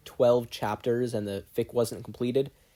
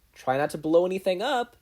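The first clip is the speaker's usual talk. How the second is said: mocking tone; 7 semitones higher, 5 dB louder than usual. A narrator's reading. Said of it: "Mina said in a mocking tone".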